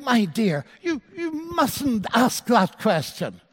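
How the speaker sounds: imitated indignant husband, slow scolding; mildly scandalized mock reproach, drawn out; incensed husband. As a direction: act out a husband's affronted rebuke. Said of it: "Her husband was incensed".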